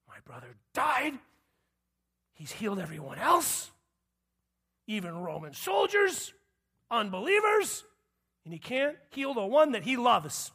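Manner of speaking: sulking Mary. Retold or imitated. Mary at home grumbling about late Jesus, building to a mild mock rant. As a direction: voice a hurt, ticked-off Mary. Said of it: "Mary's sitting in her home like".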